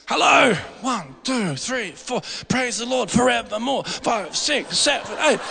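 half-shouted, hammed-up countdown; mock hype counting. Preacher parodying shallow praise, mock hyped countdown. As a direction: play a cheesy praise leader pumping the crowd.

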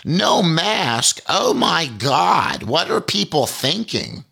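put-on slow, stretched-out tut of a fussy old lady; mock scandalised old lady. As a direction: play the old lady, shocked and drawn out, mocking her. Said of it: "says loudly so I can hear it".

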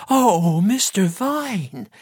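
high, drawn-out wail; loud moaning. A narrator's reading. Missus Ruddock grieving Mister Vine, high wailing moan. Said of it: "she moaned".

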